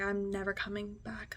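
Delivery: unvoiced, final whisper; hushed, decided; resolved whisper. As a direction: whisper it as a vow.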